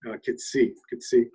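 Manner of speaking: "kitsi" said clearly, twice, as a word demo; saying the word. Shown as a demonstration. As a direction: model "kitsi" for learners.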